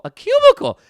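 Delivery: a cubicle, shrieked loud and high in outrage; exasperated yell. Acted. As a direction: blast "a cubicle" out in disbelief. Repeats word to rant.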